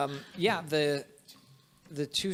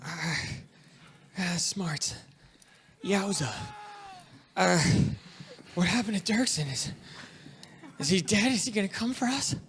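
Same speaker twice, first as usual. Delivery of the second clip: higher, halting servant voice; pitched-up bewildered figure; dazed servants; 5 semitones higher than usual. Acted. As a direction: ask haltingly, like a bewildered survivor. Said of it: "They're like".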